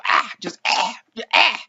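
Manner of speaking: croaked choking noises; imitated dinosaur choking. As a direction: mimic dinosaurs choking on gas. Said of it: "show the dinosaurs choking".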